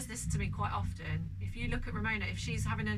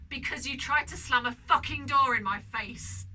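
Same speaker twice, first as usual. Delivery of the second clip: exasperated retort; 4 semitones higher, 6 dB louder than usual. Retold or imitated. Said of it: "not to say".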